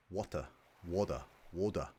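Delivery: attempted Aussie "Water" with a dropped R; Australian accent. Shown as a demonstration. Learner copying how Australians say it, Aussie accent. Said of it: "like you guys say".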